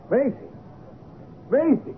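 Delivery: high-pitched, startled call; shouted name. Acted. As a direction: call out her name in disbelief. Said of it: "Dick shouted".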